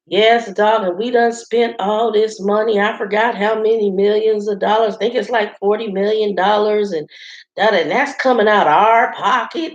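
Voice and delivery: Southern drawl. Retold or imitated. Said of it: "heavy Southern drawl".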